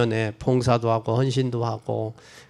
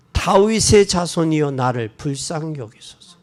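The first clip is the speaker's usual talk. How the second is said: raised plea on 다윗의; pleading cry. Retold or imitated. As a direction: call out for mercy. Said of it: "소리 질러 가로되". (다윗의 자손을 부르는 간청)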